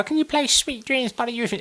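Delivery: eyes-closed dreamy plea; drunk bloke with eyes shut. Retold or imitated. Repeating the bloke's request.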